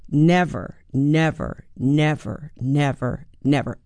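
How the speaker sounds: slow falling nevers, each stressed on the first syllable; Lear's never line. Retold or imitated. Quoting King Lear's grief as a trochee, slow falling nevers. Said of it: "And he says".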